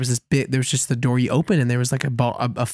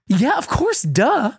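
mock duh; 9 semitones higher, slower than usual. Friend answering the obvious.

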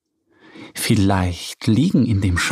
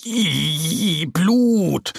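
higher, startled little yelp; startled cry; 5 semitones higher than usual. A narrator's reading. Little bear sees friend's blood, startled cry. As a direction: recoil at the sight of blood. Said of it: "ruft Mo".

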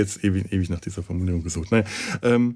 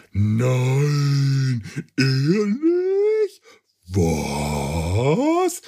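mock surprise; 3 semitones higher, much slower than usual. Mock shock at the villain reveal.

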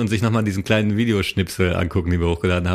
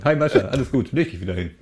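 soothing dog; 2 semitones higher than usual. Real, not acted. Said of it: "Da kommt mein Hund angelaufen".

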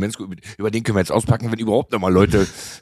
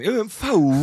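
"M V" drawn upward, much higher in pitch; Palatinate upward pull; 10 semitones higher than usual. Shown as a demonstration. Co-host coaches the rapper's dialect, "M V" pulled upward. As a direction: pull "M V" up high like a Palatinate speaker. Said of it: "Man muss das immer so ein bisschen hochziehen".

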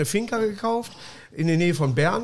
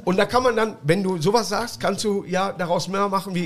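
ordinary delivery

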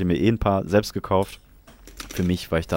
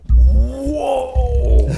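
squeaky high wow; mock amazement; 7 dB louder than usual. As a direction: fake awestruck gasp of wonder. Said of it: "ist jetzt gerade wahrscheinlich so".

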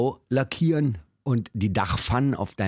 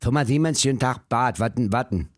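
mock phone greeting; 2 semitones higher than usual. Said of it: "unsere Chefs haben immer gesagt".

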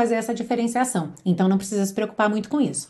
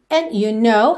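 "And you know" louder, stopped after "know"; quick pause after; 5 dB louder, slower than usual. Shown as a demonstration. Teacher models the singer's phrasing, brief pause. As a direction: halt briefly once "know" is out. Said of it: "dá uma rápida pausa".

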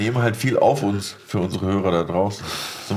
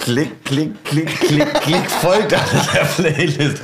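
hängende Platte; 4 semitones higher, slower than usual. Pretend. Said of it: "Das ist wie wenn die Platte hängt".

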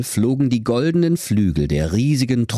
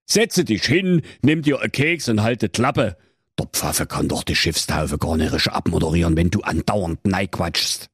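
gütig. Acted. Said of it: "sprach der König gütig".

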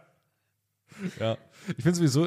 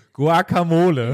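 exaggerated Spanish accent; 3 semitones higher, 6 dB louder, slower than usual. Shown as a demonstration. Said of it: "klingt's nach kultureller Aneignung".

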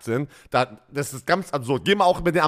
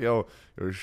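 typical American guy. Retold or imitated. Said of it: "dieser typisch Amerikaner".

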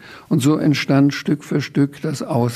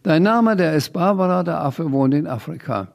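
put-on boy calls out; 4 semitones higher than usual. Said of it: "meldete sich und rief".

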